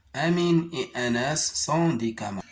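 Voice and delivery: phrase lue d'un trait, rapidement; enchaîne la phrase sans t'arrêter; lecture rapide. Shown as a demonstration. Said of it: "de la lire correctement". (lecture fluide et rapide)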